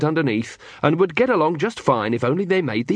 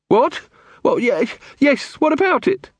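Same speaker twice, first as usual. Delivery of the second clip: higher, startled and stammering; flustered; 12 semitones higher than usual. A narrator's reading. Muldoon, caught off guard by Carrot's question about his house, flustered.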